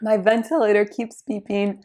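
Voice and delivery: hoarse, breathy voice nearly gone; raspy whisper. Real, not acted. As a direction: whisper through a lost voice. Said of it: "I have no voice".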